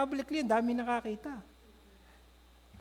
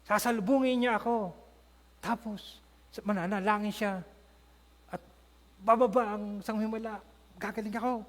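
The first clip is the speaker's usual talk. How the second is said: lightly voiced Naaman. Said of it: "sabi ni Naaman".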